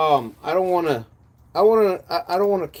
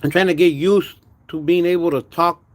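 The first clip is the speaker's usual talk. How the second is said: talking without front teeth; lisping through the gap, mouth watery; missing front teeth; 3 semitones lower than usual. Real, not acted. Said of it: "talk without my front teeth".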